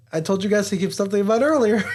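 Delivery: laughing. Real, not acted. Laughing at own setup.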